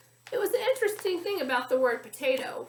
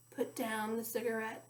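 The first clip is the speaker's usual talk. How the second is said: strong but gentle; 3 semitones lower, 7 dB quieter than usual. A narrator's reading. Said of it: "in a strong but gentle voice".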